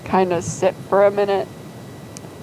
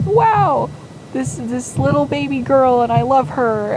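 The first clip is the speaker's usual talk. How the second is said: awed new mother; 6 semitones higher than usual. Retold or imitated. New mother marvelling at her baby.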